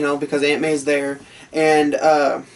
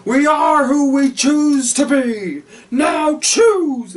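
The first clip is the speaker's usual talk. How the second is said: high, slow mocking villain; Green Goblin; 9 semitones higher, 3 dB louder, much slower than usual. Goblin forcing Spider-Man to choose, high mocking drawl. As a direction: savor each word, then snap the order. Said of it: "Goblin continues on the bridge".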